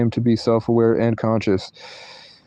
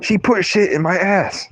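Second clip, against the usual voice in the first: high-pitched mock-outraged dad; hammed-up indignant dad voice; imitating dad; 5 semitones higher than usual. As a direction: sputter in disbelief as dad. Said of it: "And then my dad goes".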